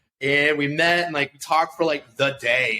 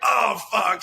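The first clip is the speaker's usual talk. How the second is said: higher-pitched mock "oh no" moment; retold dismay; 6 semitones higher than usual. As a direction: act out a sinking realization. Sudden dismay at seeing her friends.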